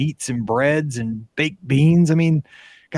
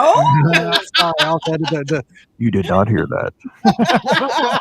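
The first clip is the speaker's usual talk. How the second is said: high giggly oops; laughing it off, caught out; laughing embarrassed; 10 semitones higher, slower than usual. Real, not acted. Caught revealing a secret.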